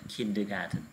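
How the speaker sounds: "kindergarten" with KIN stressed and the rest falling away; a teacher modelling the stress in "kindergarten"; stress on first syllable. Shown as a demonstration. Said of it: "Các em đọc nhấn vào âm thứ nhất".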